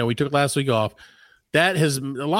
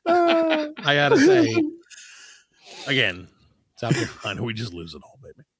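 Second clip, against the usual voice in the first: smooth late night radio host. Pretend. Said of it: "I can't keep doing that voice".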